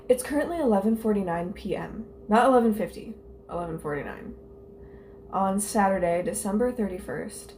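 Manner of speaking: measured, mildly theatrical scene-setting; dramatic diary reading. Acted. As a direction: read a diary entry aloud with mock gravity. Reads old diary entry aloud.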